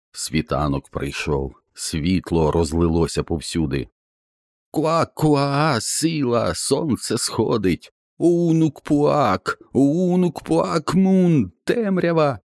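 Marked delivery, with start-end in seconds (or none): 4.7-12.4 very high, slow, piercing bird chant; shrill falcon chanting the darkness; shrill falcon cry. Acted. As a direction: scream it out like a falcon at dawn. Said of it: "закричав пронизливо сокіл".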